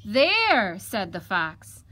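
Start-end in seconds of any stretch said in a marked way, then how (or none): 0.0-0.8 loud, high exclamation of completion; satisfied fox. Acted. Fox finishes bathing the piglet, satisfied. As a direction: announce it loudly, job done.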